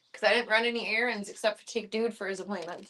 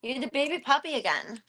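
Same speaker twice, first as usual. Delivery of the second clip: higher cooing to the puppy; baby talk; 4 semitones higher than usual. Pretend. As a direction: dote on the dog.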